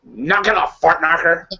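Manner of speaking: high, goofy cartoon slacker; Beavis and Butthead. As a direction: imitate a dopey cartoon teenager. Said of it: "we'll do Beavis and Butthead".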